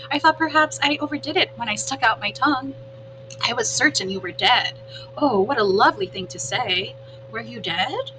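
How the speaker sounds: lightly voiced opossum, pleased with herself; a hint of a proud little actress animal; chatty opossum. Opossum boasting to the robot about her act, lightly voiced.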